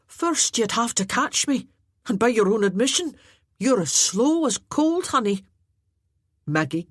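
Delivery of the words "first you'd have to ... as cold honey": higher, louder, gleeful mockery; lightly voiced Finian, teasing; cheeky jester. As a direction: deliver the insult with a grin. Finian taunts Arter.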